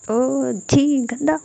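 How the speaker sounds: slow, stretched, high "ओ छी गंदा" in disgust; exaggerated childish disgust. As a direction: drag out the ew. Friend disgusted by snotty top.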